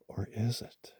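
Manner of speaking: hushed, teasing spooky question; spooky tease. Real, not acted. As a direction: play up the spookiness softly. Eye shine in the dark.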